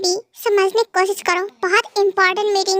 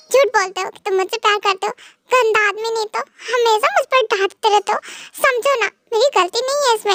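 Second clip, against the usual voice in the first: crying wife; 3 semitones higher than usual. Acted. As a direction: sulk and sob at the husband. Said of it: "और ऊपर से रो रही हो". (पति से रोते हुए शिकायत करती पत्नी, ऊँची रोनी आवाज़)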